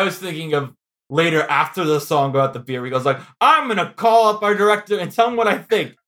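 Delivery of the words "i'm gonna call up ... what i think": higher-pitched mock ranting; hammed-up tirade, mildly indignant; imitated rant. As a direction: play at an indignant outburst down the phone. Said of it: "he does the big rant".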